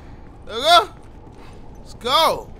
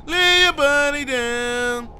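slow taunt; 3 semitones higher, 4 dB louder, much slower than usual. Real, not acted. Taunting a downed enemy.

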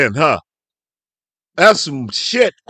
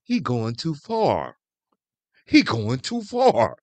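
mocking whiny critics; 5 semitones lower, 7 dB quieter than usual. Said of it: "you hypocritical bastards out there are saying".

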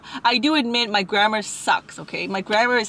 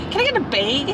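Canadian "bayg", lifting at the end; lightly imitated Canadian question; Canadian accent; 3 semitones higher than usual. Recalling how Canadians ask, Canadian accent. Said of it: "They say".

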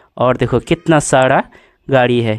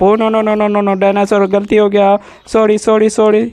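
higher-pitched, pleading play-acted sorry; panicky mock apology; 5 semitones higher than usual. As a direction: apologise in pretend alarm, pitched up. Play-acted apology to angry dinosaur. (खेल में घबराकर ऊँची आवाज़ में माफ़ी)

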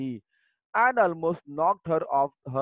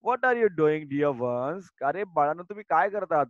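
grandmother pleading. Acted. Grandmother pleading with fighting crowd.

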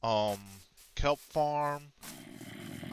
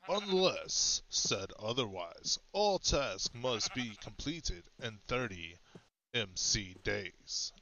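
fireside storytelling; 3 dB quieter than usual. Shown as a demonstration. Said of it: "get into my storytelling voice".

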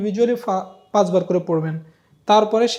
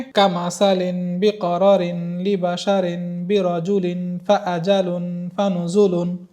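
slow, whole line in one unbroken breath; much slower than usual. Shown as a demonstration. Teacher shows the student the line in one breath. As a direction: chain every word without a pause. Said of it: "আমি এক নিঃশ্বাসে পেরেছি".

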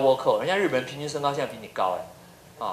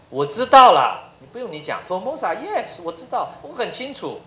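slow, lightly condescending "I know already"; smug know-it-all; 5 semitones higher, 4 dB louder than usual. Retold or imitated. Lecturer voicing a Briton who once owned the world, slow condescension. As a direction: brush him off slowly, like an old empire.

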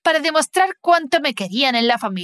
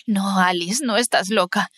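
tender reassurance; 3 semitones lower than usual. Acted. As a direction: hold her and calm her down. Mother hugs crying Alice.

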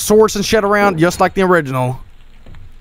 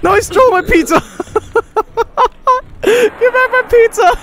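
high mock whine. Real, not acted. Streamer whining about stolen pizza, high mock whine. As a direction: pretend to be robbed.

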